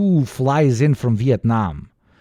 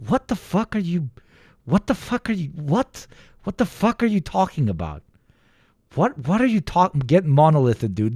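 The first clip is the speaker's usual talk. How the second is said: incredulous retort; 5 semitones higher than usual. Retold or imitated. Acting out Slavs' baffled reply.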